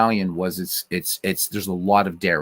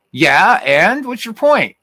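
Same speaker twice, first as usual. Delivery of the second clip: laughing retort; 13 semitones higher, 7 dB louder, slower than usual. Real, not acted. Answering chat about the animals.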